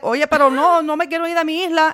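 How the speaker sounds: high, quick pleading protest in Spanish; grandma protesting. Retold or imitated. Grandma refusing to leave her island, high pleading protest. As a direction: whine it like a stubborn young woman refusing. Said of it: "And she was like".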